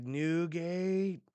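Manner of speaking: high, loud acted panic; freaking out. Crew calls out as everything crumbles, freaking out. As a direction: cry out in mock alarm. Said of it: "like, freaking out".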